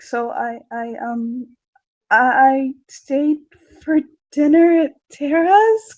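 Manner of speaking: put-on halting, sheepish teen girl voice, dragging the last words; coy daughter. Daughter confessing to her dad, coy and halting. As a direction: stall like a girl caught out past curfew. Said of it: "twirling her hair on her finger".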